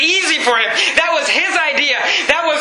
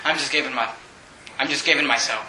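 much lower and softer, a spent whisper of giving up; hushed surrender; 11 semitones lower, 8 dB quieter than usual. Acted. Judah surrenders himself to Joseph, hushed and much lower. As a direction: let the voice drop away as he gives up.

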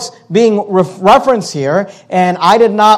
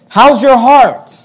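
slower, higher and louder, "your" stressed hard; "How's your heart?" pressed on "your", raised and loud; pointed question; 5 semitones higher, 4 dB louder, slower than usual. Acted. Pastor challenging the congregation, loud searching question. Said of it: "the question is this".

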